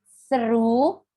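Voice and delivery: THROUGH said as one drawn-out syllable, written SERU. Shown as a demonstration. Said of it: "cuma satu syllable". (SERU diucapkan satu suku kata)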